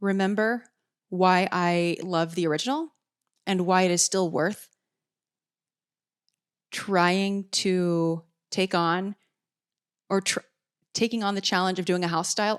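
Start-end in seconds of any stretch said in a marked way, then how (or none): 6.7-9.2 very slow, careful speech, weighing each word. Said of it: "I'm speaking really slowly here".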